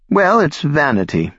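put-on high, trembling old woman's voice; quavering voice. A narrator's reading. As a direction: let each word quaver. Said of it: "Belda said in a quavering voice".

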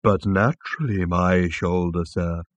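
lightly voiced bovine; placid, obliging reassurance; a touch of moo in the vowels; contented mooing. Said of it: "mooed the animal contentedly".

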